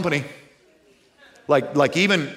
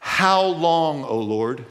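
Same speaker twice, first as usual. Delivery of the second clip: aching plea; much slower than usual. Shown as a demonstration. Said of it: "You hear it?".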